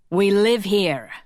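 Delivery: a curt snap, slowed; sharp snap. A narrator's reading. Vanda snapping at Robbie, defending sister. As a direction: snap it back at him. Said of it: "Vanda snapped".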